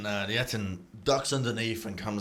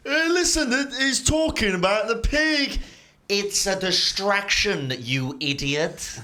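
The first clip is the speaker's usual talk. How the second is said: high, loud, slow dopey voice; dumb giant head; 11 semitones higher, 6 dB louder, slower than usual. Acted. GM voices the dumb head, then the smart one snaps. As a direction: drag it out like a slow-witted brute.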